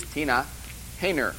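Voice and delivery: "Tina Hayner" said the southern way, ending in "-ner"; southern pronunciation. Shown as a demonstration. Teaching freshmen the southern way to say "Tina Hayner". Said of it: "the southern way to pronounce it".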